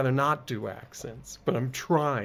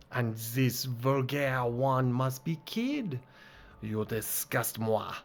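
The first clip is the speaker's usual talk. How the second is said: disdainful put-on French accent. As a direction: lightly sneer with a French accent. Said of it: "this game wants me to do accents".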